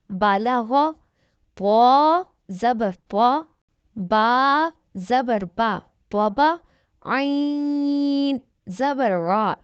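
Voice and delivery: slow, drawn-out syllable spelling; teacher reading the Qaida aloud slowly; spelling drill. Shown as a demonstration. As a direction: sound out each letter slowly for a child. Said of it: "ایسی عین کی آواز نکالنی ہے".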